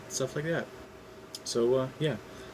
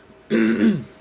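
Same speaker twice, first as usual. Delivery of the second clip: throat clearing; 11 semitones higher, 10 dB louder than usual. Real, not acted. Clears throat before reading.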